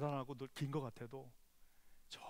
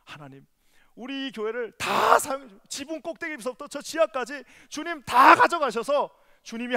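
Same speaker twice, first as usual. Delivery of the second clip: fervent prayer; 8 semitones higher, 16 dB louder than usual. Acted. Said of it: "어떻게 한다고요".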